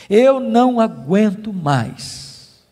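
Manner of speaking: slow, weary retold plea; retold despair, drawn out. Preacher repeats a believer's cry to God, slowly despairing. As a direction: stretch each word of the imitated cry, understated. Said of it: "desesperados, dizendo".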